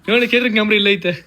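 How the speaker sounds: amused, words spilling into laughs; giggling as you point it out; laughing. Real, not acted. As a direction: reveal the hidden camera through laughter. Laughing while showing hidden camera.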